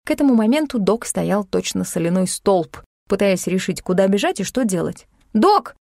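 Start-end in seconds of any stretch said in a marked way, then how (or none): 5.3-5.8 sharp loud high call; shout. A narrator's reading. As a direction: shout his name to snap him out. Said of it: "крикнула я". (резкий громкий окрик)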